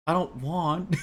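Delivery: slow start dissolving into laughter; laughing attempt. Shown as a demonstration. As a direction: crack up mid line. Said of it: "let me try and deliver this line".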